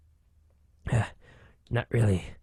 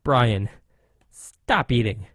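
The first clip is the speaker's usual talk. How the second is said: stern order; 5 dB louder, much slower than usual. Acted. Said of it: "I'm serious".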